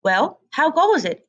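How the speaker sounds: lightly voiced old duck. A narrator's reading. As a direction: greet her like a nosy old neighbour.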